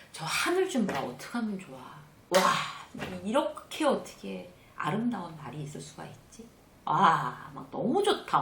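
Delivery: demonstrating wonder at lovely weather; marvelling to oneself. Shown as a demonstration. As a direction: exclaim in delighted admiration. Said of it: "그런 감탄하는 것도".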